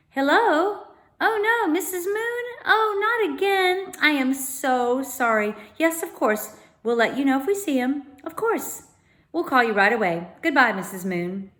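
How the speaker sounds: high, apologetic mother's phone voice; lightly voiced mum on the phone. A narrator's reading. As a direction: apologize to the neighbour.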